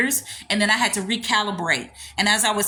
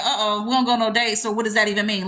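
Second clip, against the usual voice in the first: puzzled reaction; faster than usual. Acted. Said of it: "I would be looking crazy like".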